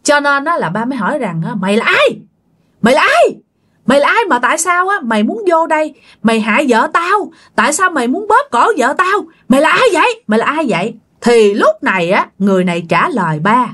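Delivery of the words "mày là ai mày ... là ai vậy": raised, angry questioning of an intruder; retold furious challenge; angry demand. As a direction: confront the stranger hotly, pitch climbing. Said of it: "kiểu như ba tức quá mà".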